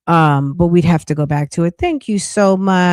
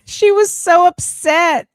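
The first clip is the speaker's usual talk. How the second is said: laughing; 12 semitones higher, 3 dB louder than usual. Real, not acted. Laughing after the impression.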